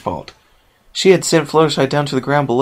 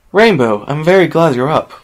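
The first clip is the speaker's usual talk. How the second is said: kind, higher and louder greeting; Sky Blue greeting Rainbow kindly, a bit raised; 5 semitones higher, 4 dB louder than usual. Acted. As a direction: speak kindly with good news. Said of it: "Sky Blue said kindly".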